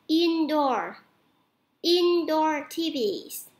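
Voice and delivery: slow, drawn-out teacher's model; slow model pronunciation. Shown as a demonstration. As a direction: say it slowly for students to repeat. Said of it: "cô lặp lại nè".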